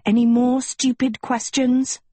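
irritated challenge. Acted. Cockroach irritably challenges Sophie.

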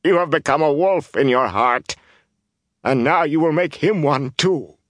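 high, anguished lament; tearful, impassioned wailing; sobbing accusation. A narrator's reading. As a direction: accuse him through grief. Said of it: "she sobbed".

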